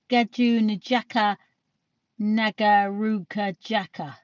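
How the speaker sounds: slowly spelling out a tricky name syllable by syllable; slow sounding out. Real, not acted. Reading a viewer's long screen name aloud, slowly. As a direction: feel your way through the name, slowly.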